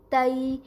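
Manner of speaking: تئی glided softly from a to i; تئی said as a smooth soft ai glide; soft gliding diphthong. Shown as a demonstration. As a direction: slide the vowel gently through تئی. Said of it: "نرمی سے slide کر کے پڑھتے ہیں".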